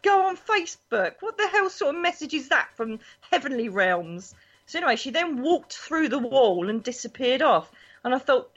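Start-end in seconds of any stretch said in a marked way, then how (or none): 0.0-4.3 high, laughing disbelief; a spirit's odd advice met with a laughing scoff; incredulous laugh. Retold or imitated. Retelling reply to nan's ghost.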